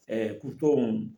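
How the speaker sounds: mock the bossy speaker who drags the words out; imposing grave tone. Shown as a demonstration. Showing how bossy people talk: slow, low, imposing.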